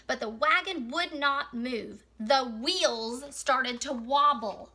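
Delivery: measured read-aloud with animal names picked out; story reading. Acted. Teacher reads a picture book about Worm's wagon, story reading. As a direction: read it clearly to young children.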